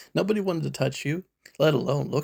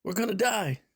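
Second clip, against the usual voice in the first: panicked yell; 8 semitones higher than usual. Retold or imitated. Disciples in a sinking boat yelling at sleeping Jesus, panicked. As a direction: retell the disciples screaming over the storm. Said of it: "They're yelling".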